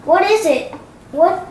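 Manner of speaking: ordinary delivery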